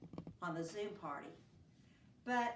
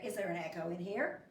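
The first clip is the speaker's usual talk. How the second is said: echo; 6 semitones lower, faster than usual. Acted. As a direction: let it come back as a faint echo. Repeat as the echo reply.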